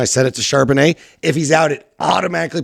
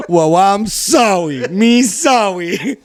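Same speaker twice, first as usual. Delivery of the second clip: put-on slow, high baby-talk apology; 8 semitones higher, 3 dB louder, much slower than usual. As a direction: whine it like a toddler. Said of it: "your baby voice".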